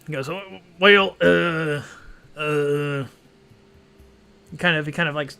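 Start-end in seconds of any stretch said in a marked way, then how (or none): 0.3-3.0 louder, stammering tipsy dwarf; drunk ghost dwarf. Acted. GM voicing the drunk ghost dwarf, a light stammer. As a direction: slur and stumble like a tipsy old dwarf. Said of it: "he's drunk".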